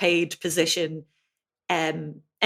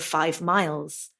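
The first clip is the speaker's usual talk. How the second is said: slow standard plural; slower than usual. Shown as a demonstration. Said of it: "instead of".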